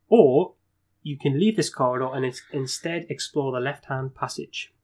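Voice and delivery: measured storyteller reading; gamebook narration. A narrator's reading. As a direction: read out the player's options. Reads gamebook options aloud.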